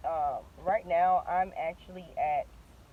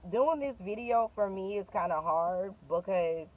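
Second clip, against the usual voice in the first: shaky voice. Real, not acted. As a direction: voice shaking from nerves. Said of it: "my voice is shaking".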